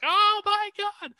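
high stretched-out gasp of wonder; slow, high, amazed; astonished. Retold or imitated. Woman beamed aboard the ship, high amazed.

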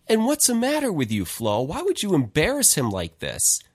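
father's reproach, lightly acted, pitch jumping up at the start; mock-indignant telling-off of a spouse; retold scolding. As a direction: take someone to task, imitating an exasperated dad.

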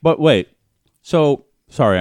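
talking with popcorn in mouth; words round a mouthful; munching popcorn. Real, not acted. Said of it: "I'm eating popcorn".

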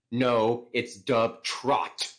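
imitating an adamant correction, drawn out; adamant insistence. College guy correcting someone on a genre name, mock adamant. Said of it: "who was adamantly like".

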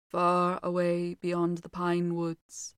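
slow low dreamy voice. Acted. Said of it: "in a low, dreamy voice".

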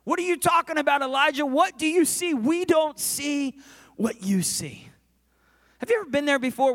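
high, loud disbelieving questioning; incredulous challenge. Acted. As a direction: challenge him at full preaching volume. Disbelieving questioners acted at Elijah.

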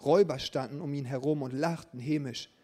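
lebhaft erzählte Geschichte; erzähl es wie eine Vorlesegeschichte; Geschichte vorlesen. A narrator's reading. Reads story to congregation. (erzählende Vorlesestimme)

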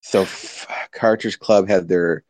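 grudging, dragged-out delivery; reluctant, like I hate it. Pretend. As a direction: say it like it pains you. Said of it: "I should deliver it like I hate it".

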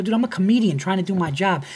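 high, exasperated retold argument; indignant protest. Comedian defending himself to the employee, indignant protest. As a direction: plead your case, fed up.

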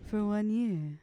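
lightly mocking phone-sex voice; imitated sex-line operator. Teasing the co-host's reading, mock sex-line voice. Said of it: "sex operator voice, sex line operator".

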